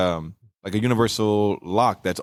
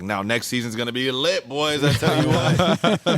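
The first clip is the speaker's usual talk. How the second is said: building higher into a drawn-out holler; hyped-up boast; 4 semitones higher, slower than usual. Retold or imitated. Retelling a voice actor's hype for next season, hyped-up boast. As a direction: imitate a fired-up actor, stretching the ending.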